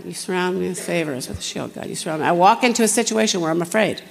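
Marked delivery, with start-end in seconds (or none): 0.0-2.3 soft, hushed declaration of the verse; quietly speaking scripture. Retold or imitated. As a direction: murmur the promise to yourself. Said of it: "I would just say it quietly".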